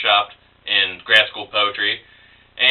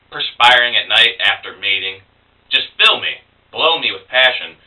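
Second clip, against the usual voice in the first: measured persona-poem recital; poetry reading. Acted. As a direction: recite it in steady phrases with short pauses. Reads persona poem to audience.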